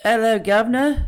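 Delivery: teasing British greeting with a rising end; put-on British hello; mock British accent. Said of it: "I got to do my British accent".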